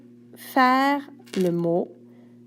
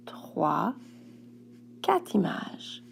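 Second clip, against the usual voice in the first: whispered counting; 3 semitones lower, 8 dB quieter, slower than usual. Acted. Counting images with the pupil.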